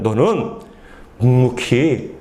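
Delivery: low, weighted divine command; God's instruction. Acted. God tells the prophet to bear his life, low solemn command. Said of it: "또 뭐라고 말씀하시냐면".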